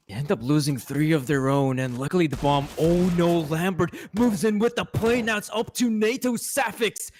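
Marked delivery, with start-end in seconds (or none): 2.8-7.1 excited. Real, not acted. Excited call of the clutch.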